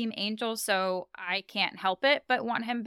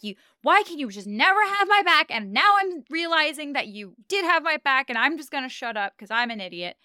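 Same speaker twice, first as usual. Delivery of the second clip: exasperated mock yell, high and loud, easing off into a faster mumble of defeat; retold yelling; 5 semitones higher, 4 dB louder than usual. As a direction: imitate an indignant rant that deflates by the end. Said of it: "like, yell at her".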